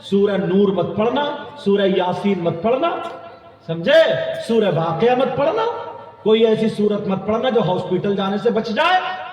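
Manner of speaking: rhythmic scolding lists; preaching rebuke. Real, not acted. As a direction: build through short, punched sermon phrases.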